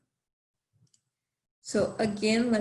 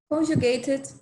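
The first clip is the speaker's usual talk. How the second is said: normal talking voice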